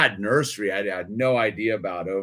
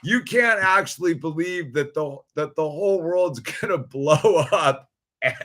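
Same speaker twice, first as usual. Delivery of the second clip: incredulous pushback; 6 semitones higher, 4 dB louder than usual. Retold or imitated. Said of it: "I'm like".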